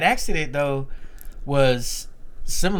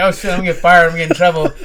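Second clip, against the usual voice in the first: worried panic; 3 semitones higher, 5 dB louder, faster than usual. Retold or imitated. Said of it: "we're kinda worried".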